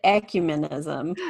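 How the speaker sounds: co-host models her own syllable stress on "ecumenism"; demonstrated pronunciation. Shown as a demonstration. Co-host answering host's question on syllable emphasis, demonstrating "ecumenism". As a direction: show how you stress "ecumenism". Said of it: "How do you put the emphasis on the syllable".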